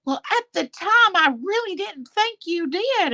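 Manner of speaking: high voice imitating a friend; imitating April. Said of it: "April's like".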